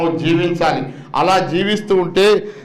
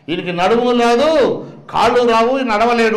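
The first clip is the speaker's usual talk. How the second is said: doctor's verdict; 4 semitones higher than usual. Retold or imitated. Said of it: "అన్నారు".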